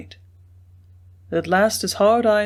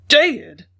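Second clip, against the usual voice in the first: sudden startled "Dead?", higher and louder; shocked exclamation; 4 semitones higher, 6 dB louder than usual. A narrator's reading. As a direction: blurt it out in shock. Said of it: "ejaculated Bostel".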